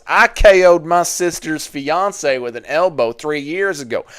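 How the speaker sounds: slow hick redneck drawl; inbred hick redneck. Acted. Reading Daniel's story about his sister's fiance, hick redneck voice. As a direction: read it like a backwoods redneck. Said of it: "inbred hick redneck voice".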